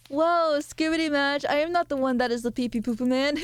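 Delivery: a hint of an excited impression; Eggy. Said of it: "try to do an Eggy impression".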